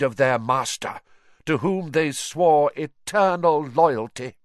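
imperious master questioning disloyal servants; menacing dark lord. Acted. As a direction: coldly accuse your gathered followers. Villain addresses his gathered followers.

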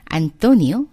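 slow, clear model sentence; slow demo. Shown as a demonstration. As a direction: say it slowly for learners to copy. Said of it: "안토니오는 노래를 잘해".

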